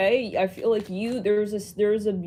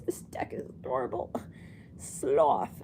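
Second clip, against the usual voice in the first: whispering; 7 semitones lower, 6 dB quieter than usual. Real, not acted. Cooing over sloth card.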